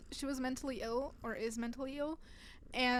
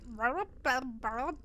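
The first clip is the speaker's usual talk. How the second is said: imitated baby noises; 3 dB louder, slower than usual. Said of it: "they're going like".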